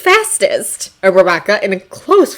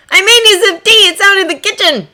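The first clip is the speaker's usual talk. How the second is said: cheerful husband voice; 11 semitones higher, 4 dB louder than usual. A narrator's reading. Hisashi's voice.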